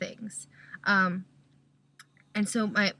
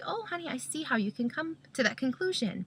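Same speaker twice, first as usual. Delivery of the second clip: gentle parent; 4 semitones higher, 4 dB quieter than usual. Shown as a demonstration. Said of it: "You say".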